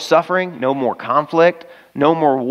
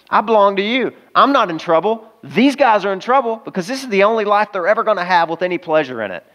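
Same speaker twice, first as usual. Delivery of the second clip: higher, lightly voiced pilot praying; voicing a pilot; 4 semitones higher than usual. Preacher voices the pilot talking to God, lightly higher. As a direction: lift the voice into the pilot's relief.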